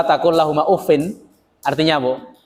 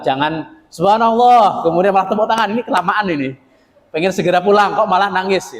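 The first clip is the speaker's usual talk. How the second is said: mock impatient congregant; 3 semitones higher than usual.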